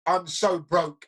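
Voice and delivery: slow, drawn-out complaint, imitated; mock woe-is-me. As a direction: stretch it out as the self-pitying version. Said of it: "it wasn't like".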